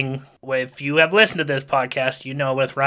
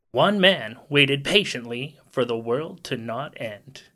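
movie trailer voice. Pretend. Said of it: "one of those movie trailer, in a world voices".

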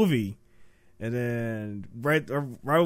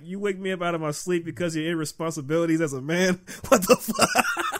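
mock anger; 2 semitones higher than usual. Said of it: "I was mad".

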